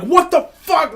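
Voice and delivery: retold shocked exclamation; mock outrage. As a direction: squeak it in shock, half joking. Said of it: "he was like".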